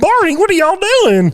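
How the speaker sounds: TV sheriff voice. Retold or imitated. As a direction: call out like a small-town sheriff. Imitating Mayberry characters.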